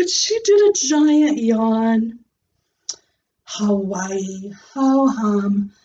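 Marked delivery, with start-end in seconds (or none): 3.4-5.7 bored. Acted. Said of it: "real bored".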